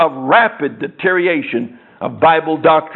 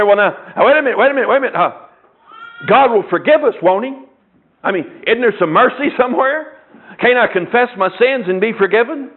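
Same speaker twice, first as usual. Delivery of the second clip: higher, pleading objection; protesting man on the street; 4 semitones higher than usual. Retold or imitated. Man on the street objects to the preacher, higher and pleading. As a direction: plead like a man who wants mercy. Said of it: "the man on the street then is gonna say".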